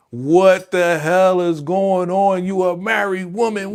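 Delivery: slow outraged disbelief. Real, not acted. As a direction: demand an answer, slowly. Outraged watching the scene.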